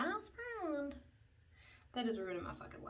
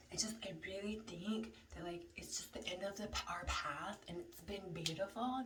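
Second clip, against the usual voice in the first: mock soft breakup voice; 4 dB quieter than usual. Boyfriend's breakup speech.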